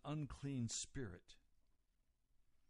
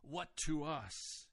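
slow, disapproving challenge; mild indignant retort; indignation; 3 dB louder than usual. Retold or imitated. Unclean spirit challenges Jesus, indignant. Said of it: "is an expression of indignation".

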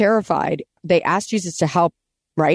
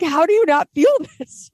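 much higher mock outrage breaking into a laugh; laughing disbelief; 11 semitones higher than usual. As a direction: disciples yelling at a sleeping Jesus. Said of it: "yeah, like".

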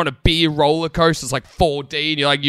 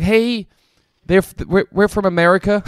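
slightly raised mock-American voice; imitated American accent; 5 semitones higher than usual. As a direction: put on a passable American tourist accent. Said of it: "This accent's a little bit better".

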